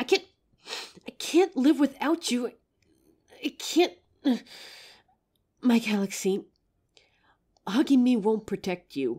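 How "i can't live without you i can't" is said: panicking, pitched much higher. A werewolf character speaks to the one they call 'my galaxy', panicking. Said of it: "I know I'm panicking right now".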